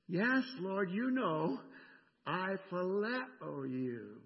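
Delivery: voicing Peter, strained and pleading; distressed Peter. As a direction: plead as a man ashamed of his betrayal. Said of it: "this is Dave now speaking for Peter".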